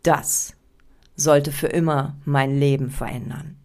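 DAS set apart with a long pause after it; stress on DAS. Shown as a demonstration. Coach demonstrates a curiosity-raising story opener, stress on DAS. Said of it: "die Betonung auf das Wort das gelegt".

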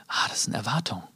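audience members' unvoiced whisper; hushed aside as if answering shyly. Seminar listeners whispering the answer to the speaker. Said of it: "dann flüstern schon einige".

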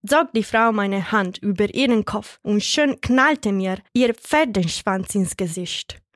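plain reading voice

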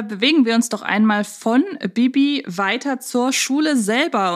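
normal talking voice

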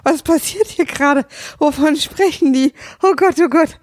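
high-pitched mock panic, laughter creeping in; bewildered. Podcaster re-enacts losing track of the episode, high-pitched bewilderment. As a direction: act out being hopelessly lost, pitched well up. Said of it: "war ich irgendwann so verwirrt".

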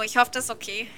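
nose held shut; pinching nose. Real, not acted. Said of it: "Ich halte mir mal die Nase zu".

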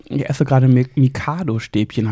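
talking while chewing; mouth full. Real, not acted. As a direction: speak through a mouthful. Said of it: "Ich esse gerade übrigens, falls man mich gerade kauen hört".

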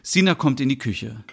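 audio drama narrator reading; calm narrator voice; story narration. Acted. Reads the drama's scene setting.

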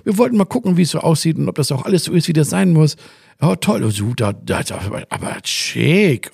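high, gushing, sugary official; mock friendly inspector. Mocking how the tourism inspectors should have greeted her, in a high, sugary voice. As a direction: imitate an overly pleasant inspector cooing over the rooms. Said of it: "die kommen ja nicht rein ... und sagen".

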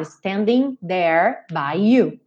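"Standing there" ending on the R; final sounds dropped. Shown as a demonstration. Teacher sings the line to show the R ending. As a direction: stop "there" on a curled R. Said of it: "eu paro meu som aonde? No R".

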